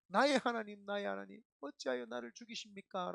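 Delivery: the last cry, opening loud; mild retold outcry; anguished cry. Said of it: "마지막 절규라는".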